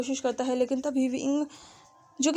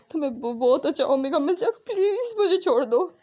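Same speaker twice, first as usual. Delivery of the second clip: stammering, tearful begging; a scared young man begging to be let go; frightened pleading. Acted. Wang ji pleads with Wing to release him.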